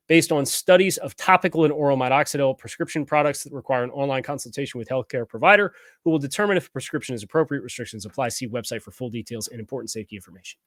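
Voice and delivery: rapid-fire legal disclaimer; auctioneer voice. Real, not acted. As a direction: rattle it off fast like an auctioneer. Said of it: "I'm getting the auctioneer voice down".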